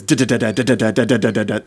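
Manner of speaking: quick chopped da-da-da for a bin bouncing over bumps; imitating a bin clattering over a bumpy driveway; bumpy bin rattle. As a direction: rattle it out like wheels on a rough driveway, laughing. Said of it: "That's the sound of me wheeling it in".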